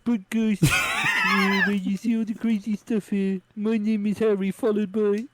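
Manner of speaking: hammed-up bad New Zealand accent with laughs; a lightly done, botched Kiwi outro; terrible New Zealander accent. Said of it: "that was my terrible New Zealander accent".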